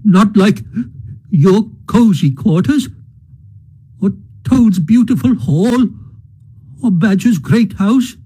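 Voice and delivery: high, wailing, tearful lament; sobbing lament. A narrator's reading. Mole weeps to Rat over his lost home, high and tearful. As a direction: pour out grief between sobs. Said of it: "he sobbed forth at last, brokenly".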